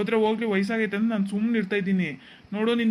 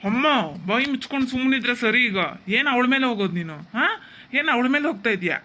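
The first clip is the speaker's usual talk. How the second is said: loud, higher, fast scolding; angry shout; 4 semitones higher, 6 dB louder than usual. Acted. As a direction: shut her up, loud and angry. Son snaps at mother.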